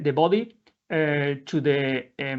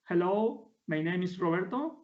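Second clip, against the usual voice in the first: same test phrase said much softer, held back; softer repeat; 7 dB quieter than usual. Shown as a demonstration. Presenter repeating his test phrase for the app, softly. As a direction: say it again quietly, close to the mic. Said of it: "We can".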